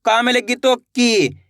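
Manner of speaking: slow, careful, spelled-out delivery; slow teaching demo. Shown as a demonstration. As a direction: spell it out slowly for a beginner. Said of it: "भी खींच के पढ़ेंगे". (धीरे-धीरे समझाते हुए)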